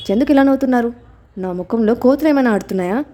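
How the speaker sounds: mildly cross, indignant question; a touch of irritation as she asks; understated annoyed retort; angry question. Acted. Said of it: "అని కోపంగా అడిగింది".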